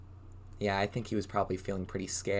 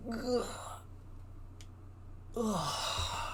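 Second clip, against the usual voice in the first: yawn; 10 semitones higher, 10 dB quieter than usual. Pretend. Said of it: "can we all yawn like Goblin".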